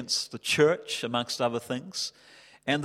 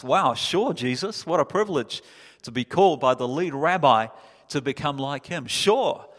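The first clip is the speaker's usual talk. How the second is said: eager disciple; 3 dB louder than usual. Retold or imitated. Disciples answering Jesus eagerly.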